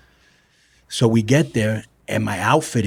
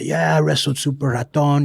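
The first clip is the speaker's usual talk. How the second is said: higher-pitched, lightly mocked brag; mocking fan impression; 5 semitones higher than usual. Wrestler imitating the fan who claimed matches, light mockery. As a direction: gently send up a fan's tall claim. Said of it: "used to make fun of him".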